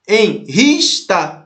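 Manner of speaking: "Enrista" slowly divided as en, ris, ta; syllable by syllable. Shown as a demonstration. Teacher repeating the split for students, "Enrista" syllable by syllable. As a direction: separate each syllable of "Enrista". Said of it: "Separa, enris".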